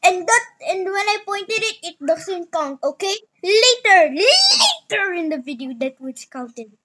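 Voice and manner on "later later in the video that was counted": loud laughing outcry; laughing protest. Real, not acted.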